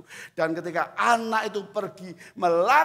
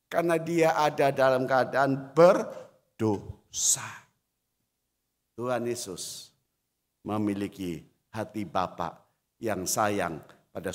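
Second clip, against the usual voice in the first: sudden whispered line; 7 semitones lower than usual. Acted. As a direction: drop to a whisper to draw them in. Sudden drop after shouting.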